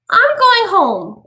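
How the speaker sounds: high, slow quavering plea; shaky high-pitched wish to flee. A narrator's reading. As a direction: let the voice tremble as she begs to leave. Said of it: "quavered Missus Bowles".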